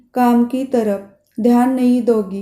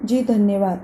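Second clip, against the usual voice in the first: trembling voice; 3 semitones lower, 3 dB quieter than usual. Acted. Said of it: "कांपते ही स्वर में".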